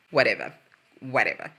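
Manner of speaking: low, indifferent brush-off; mock dismissive. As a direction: shrug it off as if bored, imitating. Mimics Ossie brushing Sam off.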